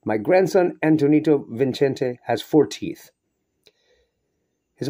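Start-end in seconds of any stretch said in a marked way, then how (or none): 0.0-3.1 higher, louder, slow and moved; proud grandfather, full of feeling; a grandfather beaming with pride; totally different voice. Acted. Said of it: "said in a totally different voice".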